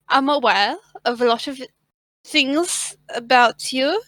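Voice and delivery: put-on halting threat in a wobbly German accent; vaguely German priestess, deliberate and hesitant; wandering German-like accent. Priestess threatening the thief, wandering fake German accent. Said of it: "This accent's, I don't know where".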